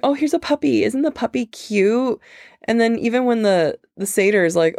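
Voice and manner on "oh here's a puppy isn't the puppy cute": put-on high, airy valley girl voice. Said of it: "super valley".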